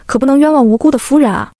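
feigned concern, 无辜 given extra weight; stress on 无辜. A narrator's reading. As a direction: lean on 无辜 with pointed emphasis. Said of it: "慕容朱雀下了重音". (重音落在“无辜”上)

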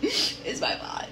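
laughing fake sob, low and slow; mock crying. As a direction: whimper it in a half-laughing mock cry. Blaming herself, repeated.

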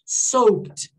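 "Soaked" as "sowt", k swallowed; subtle consonants. Shown as a demonstration. Teacher modelling for students, subtle consonants. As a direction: soften the k in "Soaked" into the final t. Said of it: "Ele é mais sutil".

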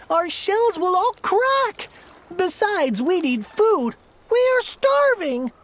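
high-pitched, pleading little turtle; groaning complaint. A narrator's reading. Bottom turtle begging his king for food and rights, pained pleading. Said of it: "groaned Mac".

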